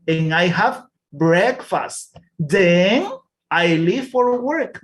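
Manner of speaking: slow, clear reading of a class text; slow reading aloud. Shown as a demonstration. Teacher reading a text slowly to the class. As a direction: read each word slowly for learners.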